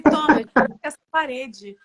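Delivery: loud, slow, triumphant comeback with a laugh; loud retort. Retold or imitated. Wife retorting to husband about the grey coat, loud and slow. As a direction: slam the point home, laughing.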